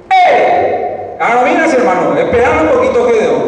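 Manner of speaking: ¡Eh! alto, hermano, más alto y fuerte; detén a Gedeón con un llamado firme; ángel que frena. Retold or imitated. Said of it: "este enviado de Jehová le dice". (el ángel frena a Gedeón en voz alta)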